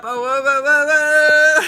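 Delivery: startled. Real, not acted. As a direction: catch it before it falls, alarmed. Something slips as she lifts it.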